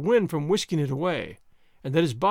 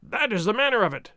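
screeching; 4 semitones higher than usual. Acted. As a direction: screech it at the shadows. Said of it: "he screeched at the fireplace".

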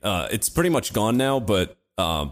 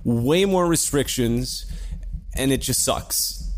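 sarcastic; 3 semitones higher, slower than usual. Retold or imitated. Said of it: "And we went".

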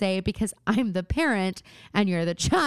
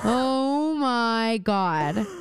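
stunned; much slower than usual. Real, not acted. Stunned reaction.

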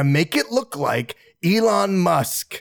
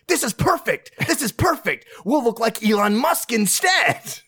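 excited scheming; 6 semitones higher than usual. Acted. Schemer excitedly pitching plan.

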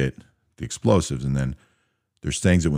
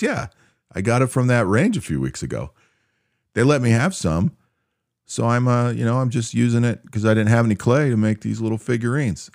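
put-on higher, eager innocent kid voice; naive young private; 9 semitones higher than usual. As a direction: play it like a clueless new soldier explaining his hobby.

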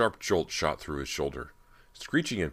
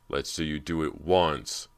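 slow, mocking jab leaning on once; a rival mocking a teammate, slow and snide; taunting; 3 dB louder than usual. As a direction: sneer it back slowly. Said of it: "John taunted".

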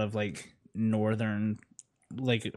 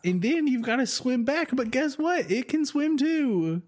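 excited; 12 semitones higher than usual. Real, not acted. Laughing, excited storytelling climb.

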